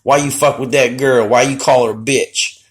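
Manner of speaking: a hint of a whiny, indignant lady; imitating a customer. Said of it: "she's like".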